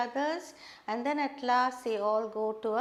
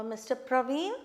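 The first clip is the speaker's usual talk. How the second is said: "Mister Praveen" lifting at the end; rising question tone. Shown as a demonstration. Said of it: "your tone goes up".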